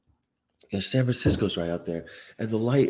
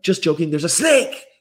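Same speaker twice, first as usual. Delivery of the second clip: mocking experimenters; 7 semitones higher, 6 dB louder than usual. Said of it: "And they're like".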